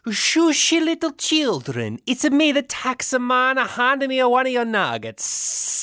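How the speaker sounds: put-on high, squeaky clown coaxing children; silly clown voice. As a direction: coo like a creepy clown to the kids. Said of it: "when you did the clown voice".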